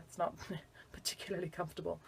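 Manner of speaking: soft breathy whisper; whispered aside. Real, not acted. Teacher whispers an aside to students. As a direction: drop to a whisper. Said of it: "whispered aside".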